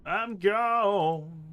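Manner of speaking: high, loud cartoonish squeak; high squeaky voice. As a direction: pop up into a squeaky silly voice. Two takes of a joke line.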